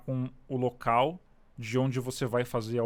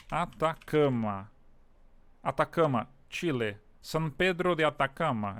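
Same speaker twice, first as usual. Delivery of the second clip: put-on Italian accent. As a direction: sing the place names like an Italian. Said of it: "Não sei porque eu fiz esse sotaque italiano".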